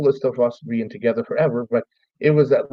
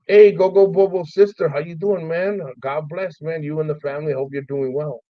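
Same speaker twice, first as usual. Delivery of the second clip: raised, hearty friendly greeting, much higher; imitating Ed's greeting; 5 semitones higher than usual. Speaker voicing his late friend greeting him. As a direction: mimic the friend calling out a cheerful hello.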